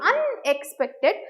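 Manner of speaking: "unexpected" with the UN stretched out, then the rest; stress on UN. Shown as a demonstration. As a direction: lean slowly on the "un" of "unexpected". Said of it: "stress is on the word un".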